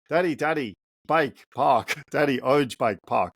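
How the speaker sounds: lightly voiced excited three-year-old; a hint of a little boy begging for the park; toddler voice. Three-year-old son waking dad on Saturday, lightly voiced eager toddler. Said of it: "so he talks like this".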